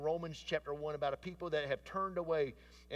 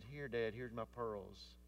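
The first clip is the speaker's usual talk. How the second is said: trembling lip; 3 semitones lower, 4 dB quieter, slower than usual. Retold or imitated. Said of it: "lip trembling".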